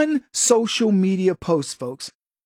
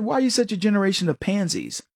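fast exasperated retort; faster than usual. Retold or imitated. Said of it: "and I asked him, I said".

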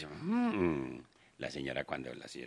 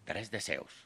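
genie voice; 4 dB quieter than usual. Retold or imitated. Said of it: "dijo el genio".

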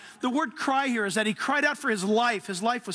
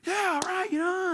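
mock shrug; 10 semitones higher than usual. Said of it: "It's like".

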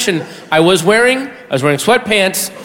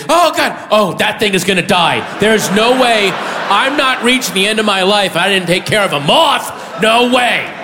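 affronted moth reaction; 3 semitones higher than usual. Acted. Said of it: "your reaction is".

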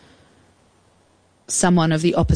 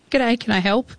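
friendly greeting; 6 semitones higher than usual. Retold or imitated. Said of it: "just opened it and were like".

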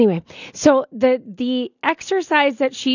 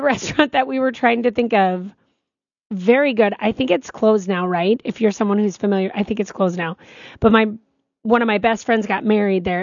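ordinary talk, nothing marked

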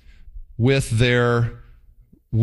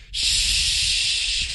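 whispered mild curse; 4 dB quieter than usual. Retold or imitated. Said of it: "how about this?".

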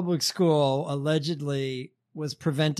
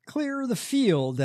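mock radio preacher; 7 semitones higher, slower than usual. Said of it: "he enunciates like Joel Webben".

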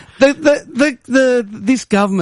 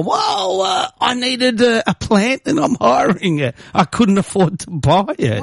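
mock high excuse; 8 semitones higher than usual. Acting out his reply to tax office.

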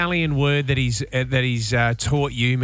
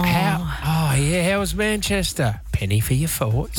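playful put-on English accent; lightly hammed-up English chit-chat; mock English accent; 3 semitones higher than usual. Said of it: "came back with a Cockney accent".

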